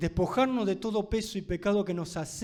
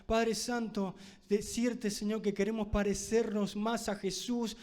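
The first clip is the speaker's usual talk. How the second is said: pastor's closing prayer over the church. Real, not acted. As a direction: pray over the congregation, tender and earnest. Preacher leads closing prayer.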